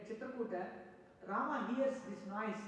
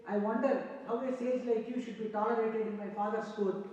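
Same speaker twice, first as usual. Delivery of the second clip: a touch of anger, somewhat louder; angry rebuke; 4 dB louder than usual. Acted. Rama rebuking the sage Jabali in mild anger. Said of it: "started speaking angrily towards Jabali".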